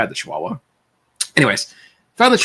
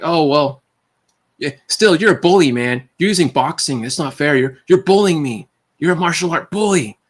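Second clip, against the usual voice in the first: higher, sulky whining complaint; whiny bully voice; 5 semitones higher than usual. Retold or imitated. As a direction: whine that it isn't fair. Bully whining it's unfair.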